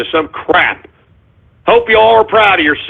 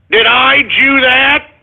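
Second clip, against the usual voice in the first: mock caller voice; 5 semitones higher, slower than usual. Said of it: "here we go with the Jew jokes".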